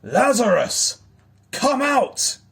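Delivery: huge, high, commanding shout; full-force yell, summoning someone from far off; mighty roaring yell. A narrator's reading. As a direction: roar it out like a lion. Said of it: "he yelled like a lion's mighty roar".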